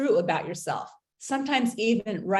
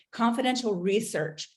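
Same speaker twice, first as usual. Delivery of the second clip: "confidential" leaned on, slightly raised; emphasis on confidential; 3 semitones higher than usual. Real, not acted. Warning an abused listener about secret research, stressing confidential. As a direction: give "confidential" a clear, deliberate weight. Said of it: "I wanna emphasize that word".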